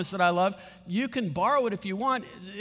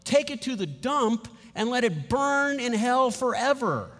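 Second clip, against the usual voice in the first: firm refusal; 6 semitones higher, 3 dB louder than usual. Pretend. Refusing the box of shame.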